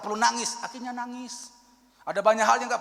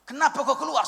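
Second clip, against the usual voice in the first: raised, pressing question; retold exclaim; 6 semitones higher, 4 dB louder than usual. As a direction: demand why he quit. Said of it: "Saya bilang gitu". (teguran keras yang diceritakan)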